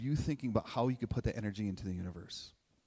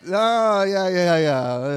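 excited; 6 semitones higher, 13 dB louder, much slower than usual. Real, not acted. Loud reaction to the crowd looking.

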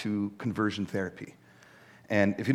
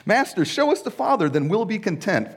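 high, louder, a touch of clueless whine; naive Philip; 9 semitones higher, 4 dB louder than usual. Acted. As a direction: play Philip as not getting it at all, in a mock-naive tone. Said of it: "Philip said".

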